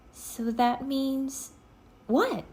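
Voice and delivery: put-on a girl prodding for the answer; Annie voice. A narrator's reading. Annie presses Jack.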